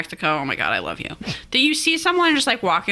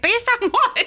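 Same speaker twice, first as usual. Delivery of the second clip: incredulous. Retold or imitated. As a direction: ask it like it's absurd. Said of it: "And I was like".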